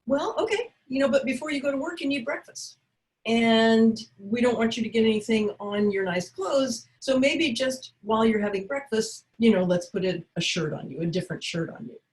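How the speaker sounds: bright, coaxing redirection; lightly steer him toward breakfast; cheery and upbeat. Shown as a demonstration. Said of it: "get creative and improv".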